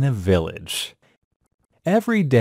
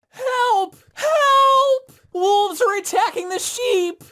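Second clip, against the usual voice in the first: high, louder shout with a crying edge; yelling louder. Acted. Shepherd boy in the tree yelling louder, high and crying. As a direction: call out harder from the tree. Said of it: "yelled out louder".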